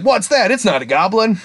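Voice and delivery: high-pitched clueless question; mock bafflement. Slayer meeting an ogre, imitated bafflement. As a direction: pitch it up, puzzled by anything non-goblin.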